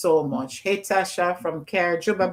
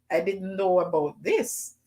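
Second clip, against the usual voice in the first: usual speaking voice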